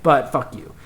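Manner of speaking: retold pointed "fuck you"; passive-aggressive. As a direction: spell out mom's hidden resentment, firmly. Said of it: "that tone of voice where it's like".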